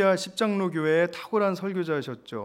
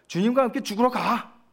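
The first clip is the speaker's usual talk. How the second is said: imitated outburst, pitched up; sudden loud outburst; 6 semitones higher, 3 dB louder than usual. Preacher quoting Thomas's sudden shout to the disciples, raised-voice outburst. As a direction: blurt it out like a sudden cry. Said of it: "갑자기 큰 소리로".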